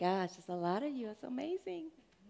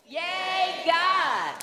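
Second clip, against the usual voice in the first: many voices in unison; 6 semitones higher, 3 dB quieter than usual. Real, not acted. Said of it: "Let's all do it with them".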